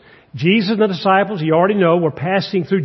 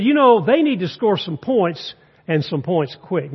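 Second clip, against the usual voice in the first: mock-astute sportscaster remark. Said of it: "Merlin Olsen made a great comment, astute observation".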